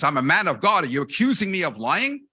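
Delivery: loud indignant bellow. Retold or imitated. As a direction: bellow it like an offended priest. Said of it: "he bellows and says".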